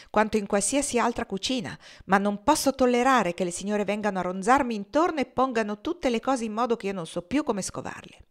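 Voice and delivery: a flustered cook excusing her mess; lightly voiced, defensive old cook; Dina the cook. Dina grumbles, voiced higher.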